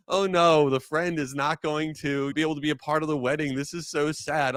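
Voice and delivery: mock tearful distress. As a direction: act out getting upset over a movie.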